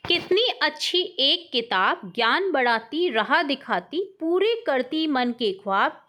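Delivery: put-on slow, sing-song children's poem; poem recitation. Teacher reciting a book poem to schoolchildren, slow and rhythmic. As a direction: recite it slowly for a class.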